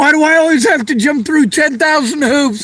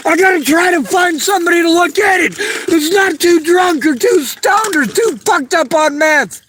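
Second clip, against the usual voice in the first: real distressed shouting. Real, not acted. Distressed rant while searching keys.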